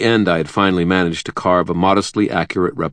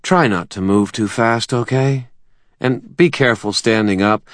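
lightly raised, quick nervous doctor; a slightly higher, hurried young doctor; Butters voice; 7 semitones higher than usual. Acted.

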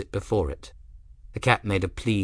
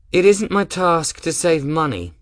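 higher, louder, with a clipped edge; tart; 8 semitones higher, 6 dB louder than usual. Acted. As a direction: put her in her place tartly. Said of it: "Gwen replied rather tartly".

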